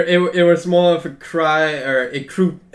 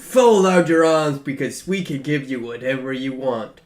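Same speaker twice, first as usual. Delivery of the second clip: summoning call; 5 dB louder than usual. Acted. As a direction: call adventurers in from afar, then ease off. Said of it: "it was more like".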